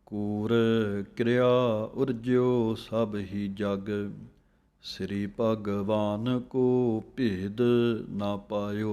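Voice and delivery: slow recital, with ਕਿਰਿਆ clipped quick; slow scripture recitation. Shown as a demonstration. Teacher reciting the verse for students, slow. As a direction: read the verse deliberately, ਕਿਰਿਆ fast. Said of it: "ਜਲਦੀ ਦੇ ਨਾਲ ਕਿਰਿਆ".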